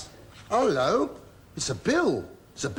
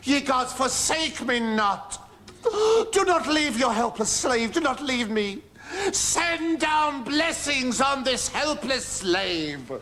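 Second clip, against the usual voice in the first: mock prayer; 5 semitones higher than usual.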